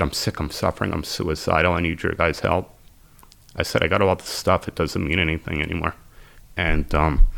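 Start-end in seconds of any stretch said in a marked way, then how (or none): 0.0-6.0 softer, broken admission at a first meeting; quiet confession. Retold or imitated. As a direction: confess it quietly to strangers, barely holding on.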